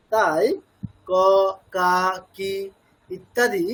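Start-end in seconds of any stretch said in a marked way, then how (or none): 1.1-2.5 ক, কা, কি as separate, clear syllables; pronounced as spelt. Shown as a demonstration. Teacher summing up the practice, ক কা কি said as written. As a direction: sound out ক, কা, কি with distinct vowels. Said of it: "তেমন করেই উচ্চারণ করার চেষ্টা করব".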